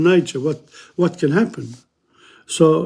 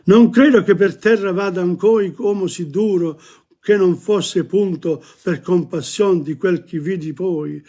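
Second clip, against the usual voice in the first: poetry recitation. Acted. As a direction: read the tercet aloud as poetry. Recites Dante's verse.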